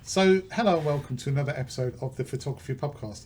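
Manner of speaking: podcast intro. Acted. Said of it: "Let me start it again".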